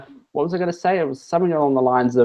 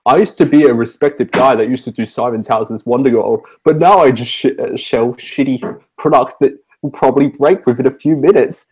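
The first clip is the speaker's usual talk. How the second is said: Jono; 5 dB louder than usual. Shown as a demonstration. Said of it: "and here's Jono".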